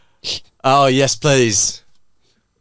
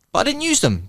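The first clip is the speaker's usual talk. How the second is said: put-on old lady voice; 12 semitones higher than usual. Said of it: "the old woman said".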